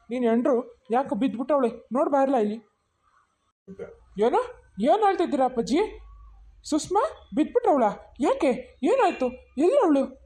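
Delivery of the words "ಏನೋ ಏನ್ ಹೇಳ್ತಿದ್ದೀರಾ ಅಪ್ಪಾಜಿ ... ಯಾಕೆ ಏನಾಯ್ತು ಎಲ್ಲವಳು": high, rushed panicky questions; shocked and scared for his wife; alarmed questions. Acted. Husband hearing his wife collapsed, alarmed and panicky.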